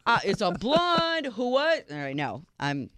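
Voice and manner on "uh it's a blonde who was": mock jealous confrontation. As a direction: play the furious girlfriend grilling him. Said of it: "I would be like".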